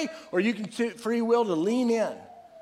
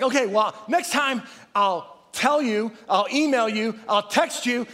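exasperated spouse; 2 semitones higher than usual. Retold or imitated. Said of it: "we've had this fight where it's like".

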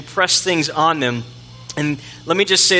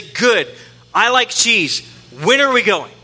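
lightly voiced higher, trusting kid; eager child; 6 semitones higher, 3 dB louder than usual. Pastor voicing gullible kids about the moon, eager child. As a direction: play a small child who takes it at face value.

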